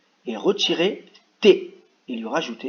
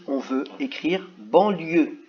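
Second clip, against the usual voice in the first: slow dictation; slower than usual. Shown as a demonstration. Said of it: "Je vais juste vous lire celui-là".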